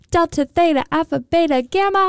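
high, bubbly cheerleader chant. Retold or imitated. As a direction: chant the brainwaves like a peppy cheerleader. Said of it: "a really B B voice".

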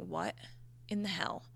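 hushed aside; whispered disbelief. Retold or imitated. Thinking it to herself on the massage table, whispered. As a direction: drop to a shocked whisper. Inner reaction to the massage room.

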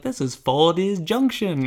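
put-on slow old-time radio announcer; old-timey radio voice. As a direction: lightly play a vintage radio host. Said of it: "old-timey voices".

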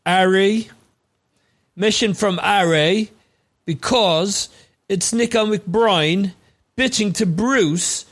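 lightly put-on British accent. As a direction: slip into a mock British accent. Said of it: "accent for the night".

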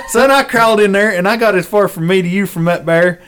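ordinary talk

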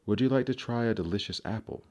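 high, fast coaxing offer; sweet peddler voice. Acted. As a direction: tempt her brightly and quickly. Queen disguised as farmer's wife.

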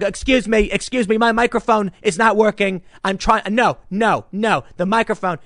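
mildly indignant politician impression; Trump. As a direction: interrupt insistently over a dead microphone. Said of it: "he's gonna lean over and grab someone else's mic".

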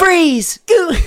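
high shouted attack call; high, drawn-out hero shout; Haley Joel Osment. Acted. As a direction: yell it like a game hero's battle cry. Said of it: "shouting it in the Haley Joel Osment voice".

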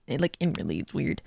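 talking while holding a burp; swallowing a burp mid-sentence. Real, not acted. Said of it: "Sorry, I keep burping".

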